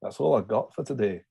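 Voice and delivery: a loose Scottish accent on "That's all I got for today". Shown as a demonstration. Co-host reads viewer's request in a Scottish accent. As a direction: roll it out Scottish, slipping by the end. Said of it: "Now say in a Scottish accent".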